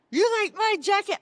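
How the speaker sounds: high-pitched excited question; imitating a proud, thrilled man; delighted showing-off. Dawn shows off the donated jacket, delighted. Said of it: "And he goes".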